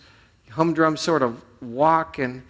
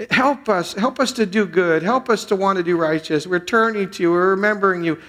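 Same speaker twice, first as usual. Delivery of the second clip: fervent prayer; 5 semitones higher, 4 dB louder than usual. Acted. Pastor voicing the congregation's plea to God, fervent. Praying the verse with fervor.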